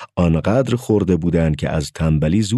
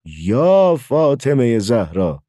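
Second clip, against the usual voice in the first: slow, drawn-out cry at raised pitch; alarmed cry; 6 semitones higher, much slower than usual. A narrator's reading. Mother cries out at the door on seeing locusts, alarmed cry. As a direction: cry out a holy name, stretching it long. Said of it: "مادرم فریاد زد".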